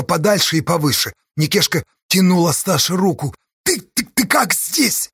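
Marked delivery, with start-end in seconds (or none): 3.6-5.1 stammering in shock, slow and higher; barely getting the words out, stunned; a breathless, halting question; voice gone. A narrator's reading. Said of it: "потеряв голос, спросила Сташа".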